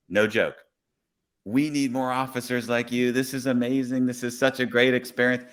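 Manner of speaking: lightly acted grateful enthusiasm; retold gushing praise. Grateful passenger praising the officer, mildly gushing.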